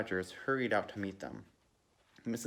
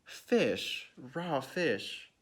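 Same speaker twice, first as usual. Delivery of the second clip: raised, higher appalled exclamation; disgusted scream; 5 semitones higher, much slower than usual. A narrator's reading. Guest discovers raw fish, disgusted mock scream. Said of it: "she screamed".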